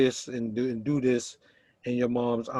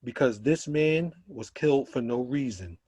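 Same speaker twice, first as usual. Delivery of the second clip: slow, measured spoken-word delivery with long pauses; poem recitation; slower than usual. Acted. Poet performing his protest poem for the poetry night, slow and solemn. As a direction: let each repeated line land heavy and slow.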